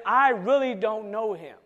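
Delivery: loud, forceful denial as Peter; emphatic denial. Retold or imitated. Peter swearing to the servant girl, loud emphatic denial. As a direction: push the denial out hard. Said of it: "he made it so emphatic".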